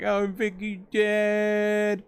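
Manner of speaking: high, slow mock sob; mock crying. Mocking Jeremy crying over Vicky, slow high whimper. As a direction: whine it out like a crying kid. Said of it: "and he's crying".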